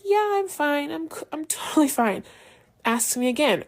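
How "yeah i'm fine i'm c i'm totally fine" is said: higher, chirpy "I'm fine"; high, too-bright cover-up; forced brightness. Retold or imitated. To a new acquaintance asking if she's okay, a forced high bright denial.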